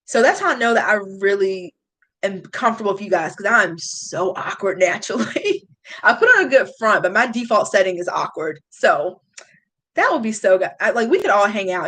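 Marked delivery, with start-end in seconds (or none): 3.3-7.0 laughing while admitting it. Real, not acted. Streamer laughing about being awkward. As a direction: giggle through the line.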